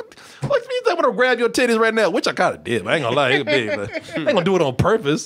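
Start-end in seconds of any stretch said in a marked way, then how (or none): 0.0-2.1 high, giggling, incredulous, laughing tone. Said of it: "and I was laughing".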